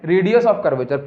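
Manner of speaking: Radius of curvature spelled out slowly; slow answer. Shown as a demonstration. Teacher answering own question, slow. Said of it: "इस radius को हम क्या बोलते हैं".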